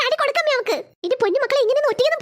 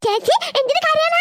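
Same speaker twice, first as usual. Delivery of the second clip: put-on higher, slow small child voice; little child; 4 semitones higher, slower than usual. Little child asks sister. (ചേച്ചിയോട് ചോദിക്കുന്ന കുഞ്ഞ് കുട്ടി)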